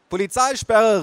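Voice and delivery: put-on high, loud kid's command; small boy calling. A narrator's reading. Boy blocking grandmother, calling out. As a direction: shout it like a boy playing police. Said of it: "rief er".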